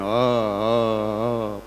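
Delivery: quiet repeated "હ, હ"; stammering. Retold or imitated. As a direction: stutter on "હ". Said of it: "તોતડી જીભ".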